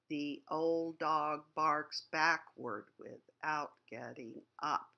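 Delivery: put-on slow, heavy reading of the old dog line; slow sounding out. Shown as a demonstration. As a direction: drag each word like a tired old dog. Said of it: "Just sounding that out tells you".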